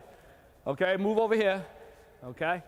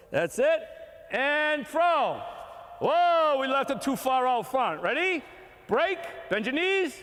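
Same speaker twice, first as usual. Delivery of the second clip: yelling from the sidelines; 4 semitones higher, slower than usual. Real, not acted. Drill commands to coaches.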